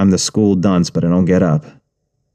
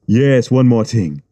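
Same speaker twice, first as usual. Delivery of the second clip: calm menace. Acted. Gangster after shooting him.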